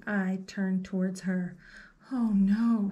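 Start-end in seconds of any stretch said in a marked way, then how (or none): 2.1-2.9 1 mild fretting. Acted. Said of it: "fretted Velma".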